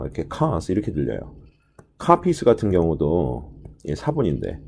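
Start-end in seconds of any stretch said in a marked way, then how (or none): 0.3-0.7 "cars" with the R dropped; British pronunciation. Shown as a demonstration. Teacher showing students how British cars sounds, R-less pronunciation. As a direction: say "cars" British-style, as 'kahs'. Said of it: "cars를 영국식 발음으로 하게 되면 R 발음이 죽어서요".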